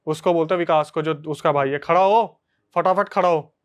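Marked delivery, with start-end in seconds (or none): 1.8-3.5 mild mock yell at a brother; retold shout. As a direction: act out a shouted order, lightly. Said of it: "वो चिल्ला के बोलता है". (चिल्लाने की हल्की नकल)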